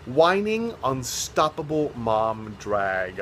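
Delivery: slow, deliberate brand announcement; mock-grand tagline; grand slogan voice. Shown as a demonstration. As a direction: proclaim it like a slogan. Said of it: "announces her brand slowly".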